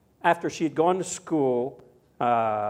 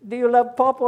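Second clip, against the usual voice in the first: playful question; 7 semitones higher, 6 dB louder than usual. Retold or imitated. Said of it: "and I said".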